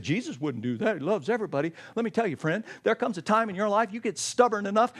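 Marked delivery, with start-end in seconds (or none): 0.0-1.7 soft, meek protest; mock objection. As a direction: say it like a timid objector. Imagined listener objecting.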